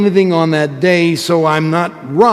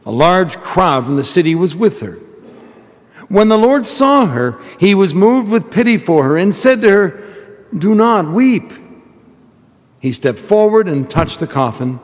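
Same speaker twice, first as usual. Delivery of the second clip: solemn proclaimed gospel reading. Real, not acted. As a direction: proclaim it from the pulpit. Priest proclaims the gospel at Mass.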